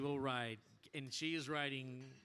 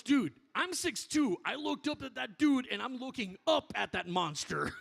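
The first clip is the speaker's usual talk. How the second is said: retold amazement; 9 semitones higher, 7 dB louder than usual.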